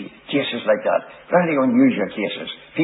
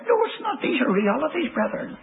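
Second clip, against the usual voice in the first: pitched much higher, pressing hard; emphatic insistence; 4 dB quieter than usual. Real, not acted. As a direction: drive it home to the brethren. Preacher's emphatic rebuttal.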